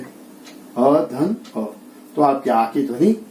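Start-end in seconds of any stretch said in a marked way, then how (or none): 0.0-1.6 अ धन अ stretched out very slowly, sound by sound; slow teacher demo; very slow spelling out. Shown as a demonstration. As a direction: draw out अ धन अ slowly for the class. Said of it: "अ के साथ मेल करें".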